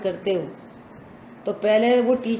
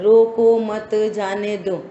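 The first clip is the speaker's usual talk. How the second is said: evenly spaced, unbroken रोको मत जाने दो; sentence read without comma; slower than usual. Shown as a demonstration. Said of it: "एक sentence लिखा है".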